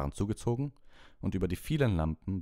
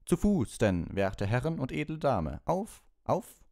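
high, loud pompous knight's charge; knight calling out; 8 semitones higher, 4 dB louder, slower than usual. Acted. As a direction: sound the charge like a gallant old knight. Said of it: "Dann rief er".

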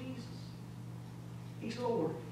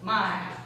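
low, weighty MY before "house"; stress on MY; 4 semitones lower than usual. Retold or imitated. Preacher repeating the demon's claim, stress on "My". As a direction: press on "My" to claim it. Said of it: "notice the assumption of ownership here".

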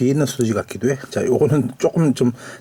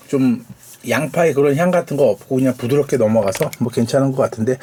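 ordinary talk

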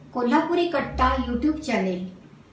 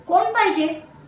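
surprised question; 6 semitones higher than usual. Acted. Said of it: "आश्चर्याने विचारलं".

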